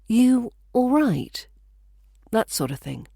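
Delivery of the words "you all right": You all right said slowly, each word careful; a careful, slow, genuinely asking You all right; slow and deliberate. Shown as a demonstration. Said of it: "each word is said quite carefully and slower".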